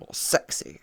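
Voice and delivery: a breathless whispered sexy. Pretend. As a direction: breathe the word out as a tease. Whispered punchline.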